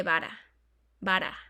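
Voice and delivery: "vara" with one light tap; single soft R. Shown as a demonstration. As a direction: say "vara" with an untrilled Spanish r. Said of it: "va a ser R normal".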